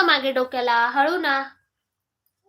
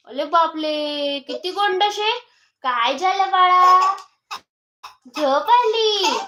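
mock baby talk; 3 semitones higher, slower than usual. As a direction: coo over the doll like a baby, slowly.

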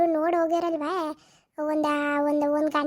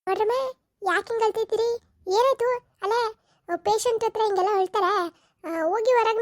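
higher, sharp scolding questions; 5 semitones higher than usual. Acted. Compounder scolding the family for crying, sharp and higher. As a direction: rebuke the crying women. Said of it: "compounder scolds crying family".

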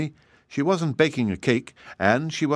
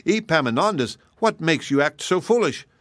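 put-on higher-pitched mother scolding her foolish boy; mammy scolds Epaminondas, higher and exasperated; 6 semitones higher than usual. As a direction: cry out at him in dismay. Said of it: "cried his mammy".

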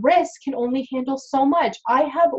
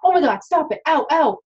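a mildly raised, whiny patient's complaint; mock pained patient; 4 semitones higher than usual. Hygienist imitating a patient who keeps complaining in mock pain. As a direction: play the patient squirming in the chair. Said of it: "if they're always like".

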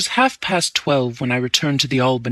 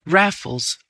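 cutting in; 4 semitones higher than usual. A narrator's reading. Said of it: "I cut him short".

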